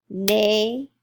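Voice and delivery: "Navy" broken into long nay, pause, vee; split into syllables. Shown as a demonstration. Teacher sounding out the first word, split into syllables. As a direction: draw out each syllable of "Navy" separately. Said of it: "it's at the end of the syllable".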